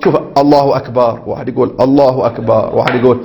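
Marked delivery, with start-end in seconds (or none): 0.0-1.2 mock odd takbir. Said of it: "كل واحد يخترع". 1.8-2.7 mock odd takbir. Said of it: "كل واحد يخترع".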